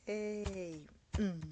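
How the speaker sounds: drawn-out "hey" with a loud hum; expressive Creole interjection. Acted. Writer voicing how her people speak, emphatic interjection. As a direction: stretch the exclamation, then hum emphatically. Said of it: "That's how we speak, by the way".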